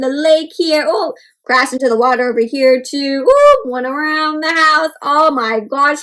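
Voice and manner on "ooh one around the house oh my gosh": amazed. Acted. Amazed at the flight path.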